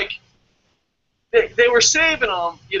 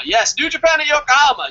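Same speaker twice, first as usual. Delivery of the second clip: higher, louder excited repeat; fired-up confirmation, pitched way up; emphatic excitement; 6 semitones higher, 4 dB louder than usual. Real, not acted. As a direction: hype it up, voice jumping high.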